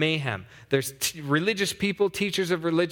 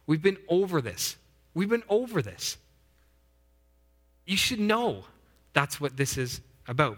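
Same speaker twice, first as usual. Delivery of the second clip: weary, exasperated chiding rising on been over this; exasperated Jesus. Retold or imitated. Jesus chiding his nine disciples, exasperated. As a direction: sigh at them, we've been over this. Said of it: "kinda heard from Jesus".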